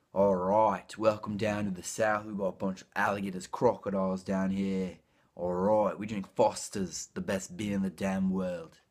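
imitated Australian accent, punchy openings. Shown as a demonstration. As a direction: put on a broad Australian accent. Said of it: "che sarebbe australiano".

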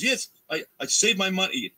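high, excited put-on Hungarian accent, voiced lightly; imitated Hungarian accent. Hungarian fan greeting his hero, high excited Hungarian accent. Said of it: "Oh, what's the accent?".

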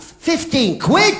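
unsure question. Acted. Unsure repeated answer.

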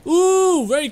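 excited ooh. Real, not acted. Cheering a clip.

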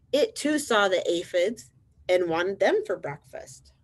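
lively, measured storybook narration; reading to children. A narrator's reading. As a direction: read it out clearly to little listeners. Reads picture book to children.

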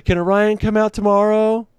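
put-on high, eager kid voice; kid asking. Neighborhood kids asking the dad for Orion, high eager kid. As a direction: beg like a little kid. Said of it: "they all come to me and is like".

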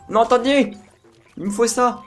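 high excited call; urgent. Real, not acted. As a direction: rush to grab it. Grabbing an item in panic.

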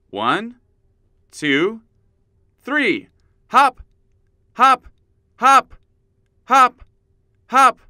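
high, loud hop calls; hyped up counting. Shown as a demonstration. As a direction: cheer them on, loud. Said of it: "start hopping on one foot".

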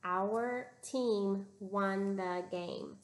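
slow, even reading together; teacher reading along slowly with students; slow choral reading. Shown as a demonstration. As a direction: read it slowly in unison with the class. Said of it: "Read it with me".

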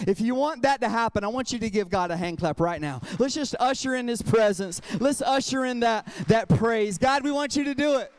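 loud, building preacher's call for applause; rousing call to praise. Real, not acted. Pastor urging the church to clap, loud and rousing. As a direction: whip the congregation up to clap.

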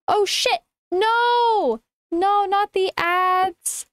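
high whiny wail of despair; playful overdone dismay; mock despair. Ads interrupt end of stream.

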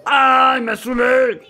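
loud exasperated shout. Real, not acted. Gamer yelling at the opponent's spawner deck, loud. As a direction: yell out your frustration. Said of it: "Faut que je gueule".

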